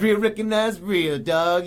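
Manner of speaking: a hint of a cocky action hero, slow and loud; tough-guy respect. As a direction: drawl it out like a tough guy sizing up an equal. Acting the tough-guy greeting.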